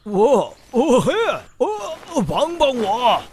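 startled, begging for help; panicked cry. Acted. Startled by wild animal in tent.

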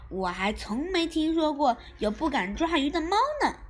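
高声急切地反击; 着急地揭对方短. Acted. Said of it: "咪咪也急了". (又高又响地急着反驳)

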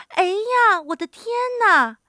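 high, loud startled exclamation; startled little old woman; frightened cry. A narrator's reading. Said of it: "瘦小的老妇人喊起来".

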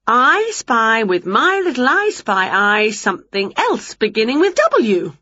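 a hint of a playful witch drawing out her riddle; Winnie's voice. Winnie plays I spy again.

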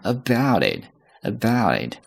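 about it with full open diphthong in about, linked into it; about 双元音饱满并连读 it. Shown as a demonstration. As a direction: open wide on about and link into it. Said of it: "about是一个双元音".

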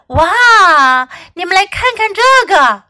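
high, loud wow; amazed. A narrator's reading. Dexter marvelling at Fox's baton twirling, amazed. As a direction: call everyone over to look.

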